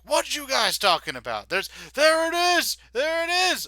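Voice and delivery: high, loud shout; guard shouting. Acted. Guard shouting to the others as he spots the fae. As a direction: yell and point it out.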